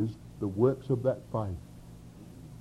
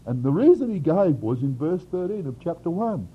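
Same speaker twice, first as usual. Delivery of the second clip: normal talking voice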